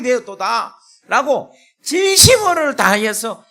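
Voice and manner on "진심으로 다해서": ringing pulpit shout; preaching at full force. Acted. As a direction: preach it out with fire. Preaching climax.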